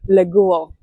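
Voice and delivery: leglo with both L's deep in the throat; leglo, L's pulled back toward W; throaty L. Shown as a demonstration. Teacher shows students the throaty L in leglo. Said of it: "here deep in the throat".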